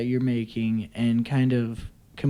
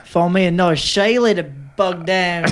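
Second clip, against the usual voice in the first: put-on Scottish or Irish accent; 2 semitones higher than usual. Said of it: "that was almost like a Scottish or Irish".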